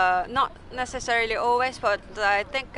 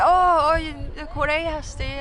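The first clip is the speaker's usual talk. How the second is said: excited fan voice; 7 semitones higher, 4 dB louder, slower than usual. Retold or imitated. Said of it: "And then they're like".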